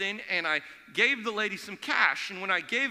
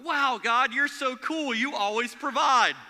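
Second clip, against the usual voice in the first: mock delight; 3 semitones higher, 4 dB louder, slower than usual. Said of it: "My first thought was".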